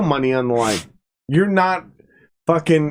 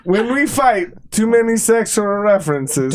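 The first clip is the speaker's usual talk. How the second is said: put-on Russian accent; 5 semitones higher than usual. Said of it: "the Russian accent".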